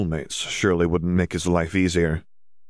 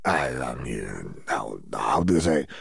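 slow, lower, halting stammer; flustered; 6 semitones lower, 4 dB quieter than usual. A narrator's reading. Victor caught out by Fleur, flustered stammer. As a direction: caught off guard, fumbling for words. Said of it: "looked like a petrified cat".

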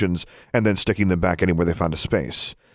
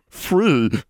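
higher-voiced elf, bitter on the word; bitter distaste; 7 semitones higher than usual. A narrator's reading. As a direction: say it as if it tastes bitter. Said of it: "spoke the word as if it tasted bitter".

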